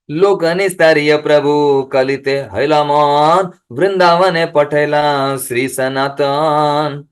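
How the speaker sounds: slow, measured recitation of a sacred verse. Acted. Preacher reciting scripture to the congregation, slow and measured. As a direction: intone the verse slowly, line by line.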